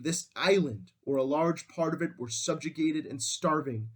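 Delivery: measured, emphatic read of an oration; speech reading. Acted. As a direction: read it as a resolute wartime address, lightly declaimed. Reads out Churchill's wartime speech.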